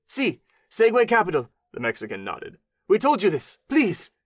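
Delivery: beg, strained and frantic; pleading Mexican man. A narrator's reading. Wounded man begs.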